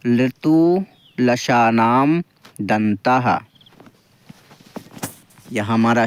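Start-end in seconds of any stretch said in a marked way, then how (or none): 0.1-3.4 लृतुलशानाम दंताः stretched out very slowly, syllable by syllable; slow it right down so students can copy; slow model recitation. Shown as a demonstration. Teacher modelling the sutra for students to repeat, very slow. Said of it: "बोलने का प्रयास करें दोस्तों".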